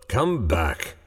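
tender. A narrator's reading. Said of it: "he said tenderly".

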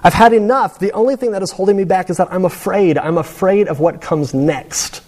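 a lightly voiced old patient begging to be let go; dying old man, pleading. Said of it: "And he goes".

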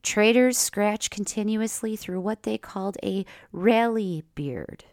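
lively, punchy story reading; story narration. Acted. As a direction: read it like a spoken essay. Reads own written story.

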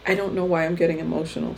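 quick, moved aside; getting emotional. Real, not acted. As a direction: admit it quickly, a little choked up.

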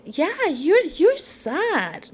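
high, rising then falling realization; retelling a sympathetic reply, pitch swooping up; dawning sympathy. Retold or imitated. Woman tells Jesus she feels his sadness, sympathetic.

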